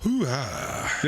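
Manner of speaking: a hint of Al Pacino's hoo-ha. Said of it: "you do Al Pacino pretty good".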